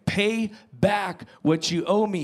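slow, firm demand; a lightly acted stern debt collector; mock demand. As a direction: lay down the demand slowly like a harsh creditor. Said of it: "he demanded".

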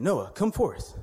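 high-pitched imitation of a summons; mysterious calling voice. Boy's story of a voice calling him at night, high calling voice. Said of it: "The voice said".

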